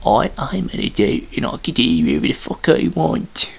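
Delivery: high, whiny mock voice of Saf; mocking Saf impression. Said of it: "this is his voice".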